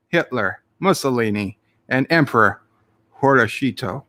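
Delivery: mock station-ident delivery; radio announcer. Streamer reading a listener's joke radio ident, mock announcer voice.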